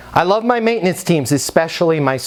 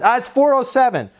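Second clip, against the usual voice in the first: high, exasperated resident voice; mock exasperation, high and insistent; upset resident; 8 semitones higher than usual. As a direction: act fed up at having to repeat it, pitched up. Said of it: "current resident that's upset".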